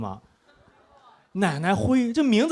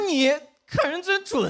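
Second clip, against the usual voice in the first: mock praise; 9 semitones higher, slower than usual. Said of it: "我说".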